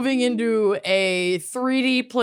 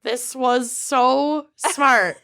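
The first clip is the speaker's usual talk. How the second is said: sarcastic; slower than usual. Acted. Sarcastic about home ownership.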